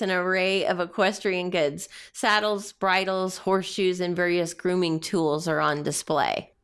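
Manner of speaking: measured read-aloud narration; game master's scene setting. Acted. Game master describing a horse-trading town to players, read-aloud narration.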